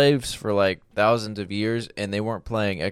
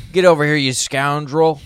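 put-on old-timey angry man; 5 semitones higher, 5 dB louder than usual. Mock old-timey angry threat.

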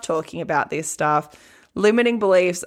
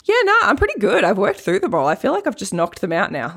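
casual client. Retold or imitated. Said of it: "she came in last night and was like".

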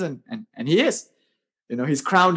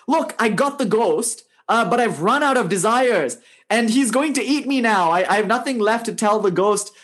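higher, mildly panicked storytelling voice; a touch of alarm, pitched up; desperate plea; 4 semitones higher than usual. Acted. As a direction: lightly act a man begging for rescue. Desperate man pleads with yogi for help.

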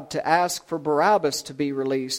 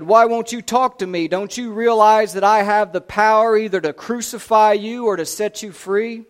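raised, louder pressing questions; demanding; 4 semitones higher, 7 dB louder than usual. A narrator's reading. Pilate questioning a silent Jesus, demanding. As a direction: press for an answer, pitched up. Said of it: "Pilate again demanded".

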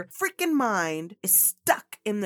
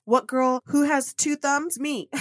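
jokey self-pointing; 4 semitones higher, 5 dB louder than usual. Pretend. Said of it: "I'm pointing at myself with two thumbs".

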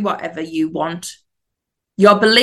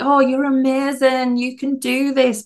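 higher, sweet little angel voice; sweet innocent angel; 5 semitones higher than usual. Retold or imitated. The angel on your shoulder cheering you on, sweetly. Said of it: "the angel is so sweet and innocent".

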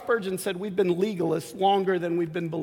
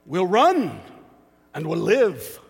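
retold battlefield yell; 3 semitones lower, slower than usual. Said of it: "one of the guys yells out".

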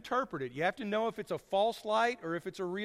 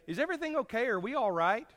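higher, gently asking a friend; caring question to a friend; concerned check-in; 6 semitones higher than usual. Retold or imitated. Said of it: "we can say".

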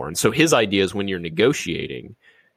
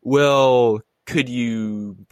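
mock timid ask; 5 semitones higher, slower than usual. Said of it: "you might say".

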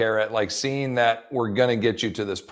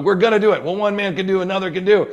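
much higher, louder urging; determined rallying cry; 8 semitones higher, 4 dB louder than usual. Retold or imitated. Survivor pushing his doubting companion to believe, high and loud. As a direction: push him to believe it. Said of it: "And he's like".

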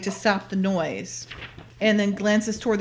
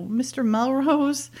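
slow, higher, drawn-out MISTER MELROSE; retold knowing reaction; 4 semitones higher, slower than usual. Retelling her reaction to hearing who ordered it, lightly mock-knowing. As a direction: draw out "Mister Melrose" in mild mock recognition.

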